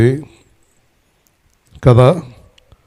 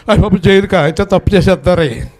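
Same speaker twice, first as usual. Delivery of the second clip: mock fearful listener; 5 semitones higher than usual. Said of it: "మీరేం చేస్తారు?".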